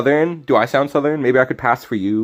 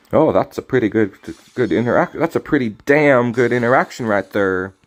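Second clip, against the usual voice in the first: slipping into a light Southern twang; slightly Southern, hard R's in the words; Southern accent. Real, not acted. Streamer praising a card interaction, lightly Southern. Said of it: "I'm being so southern".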